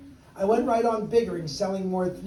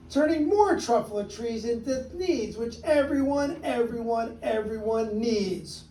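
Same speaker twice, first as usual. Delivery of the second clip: the Onceler yelling back at the Lorax; yelled; 3 semitones higher than usual. Acted. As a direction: shout him down. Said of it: "I yelled at the Lorax".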